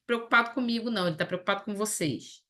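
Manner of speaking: quick, offhand made-up line; mock dismissive quote. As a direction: rattle it off as the wrong reading. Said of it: "Jesus não tá dizendo assim". (citação debochada e rápida)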